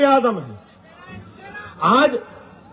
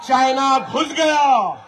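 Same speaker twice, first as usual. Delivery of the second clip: mock alarm cry. Mock cry at the watchman's failure.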